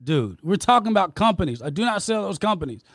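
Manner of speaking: arguing back hard with the host, voice up. Real, not acted. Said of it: "raising my voice with you".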